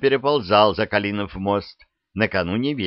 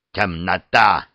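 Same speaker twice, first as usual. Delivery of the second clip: louder scornful spit; spat contemptuously; 4 dB louder, slower than usual. Acted. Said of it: "сплюнул огненным сгустом Йоха". (презрительно)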